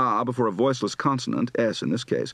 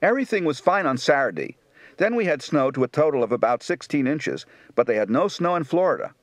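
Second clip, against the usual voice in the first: Baltimore accent. Shown as a demonstration.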